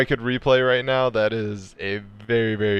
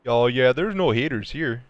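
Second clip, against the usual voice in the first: lightly put-on Canadian accent; mock Canadian. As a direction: play the reassuring Canadian caricature. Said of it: "Is T Barnes Canadian?".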